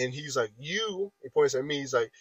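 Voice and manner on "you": high, soft mock accusation; single out one person in a half-voiced imitation; retold yelling. Coworker singling out the speaker, muted mock yell. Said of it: "yelling at this point".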